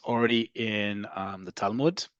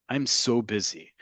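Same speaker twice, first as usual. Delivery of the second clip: slow, drawn-out "so" in "I'm so busy"; emotion on SO. Shown as a demonstration. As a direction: lean into "so" with feeling. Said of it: "There's a little bit more emotion there".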